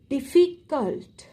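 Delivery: "Difficult" slow, in parts, di, ffi, cult; split syllables. Shown as a demonstration. Teacher counting syllables for the class, "Difficult" slowly broken up. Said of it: "two or more than two syllable".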